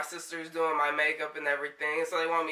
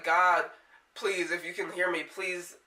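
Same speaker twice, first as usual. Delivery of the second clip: emotional. Real, not acted. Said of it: "I'm sorry, I'm getting emotional".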